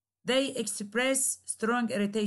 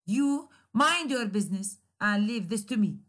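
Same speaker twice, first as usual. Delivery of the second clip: irritated command. Shown as a demonstration. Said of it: "express strong irritation".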